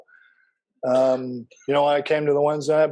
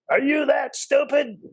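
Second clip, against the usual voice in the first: retold scream; 11 semitones higher, slower than usual. Man yelling at the new convert in the parking lot, high slow mock scream. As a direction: imitate the man yelling, pitched up and dragged out. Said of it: "him screaming".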